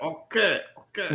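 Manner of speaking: soft slack-jawed mock mumble; imitation of open-mouthed acting; mouth left open. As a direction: mumble it without closing your mouth. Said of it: "they don't close their mouth".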